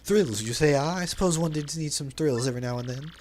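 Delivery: flamboyant merchant voice, lightly put on; theatrical braggart reading; hammed-up Flavio. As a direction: play the vain, dramatic sailor.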